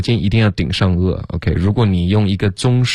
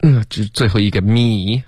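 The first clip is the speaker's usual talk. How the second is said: normal talking voice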